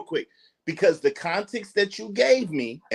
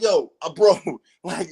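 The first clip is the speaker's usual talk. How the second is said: ordinary talk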